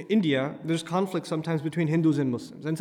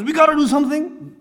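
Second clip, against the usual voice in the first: mock agitated protester; 9 semitones higher, 6 dB louder than usual. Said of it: "the guy who says".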